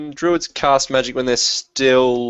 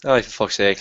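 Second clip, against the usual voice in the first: put-on Scottish accent; 3 semitones lower than usual. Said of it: "putting on a fake accent".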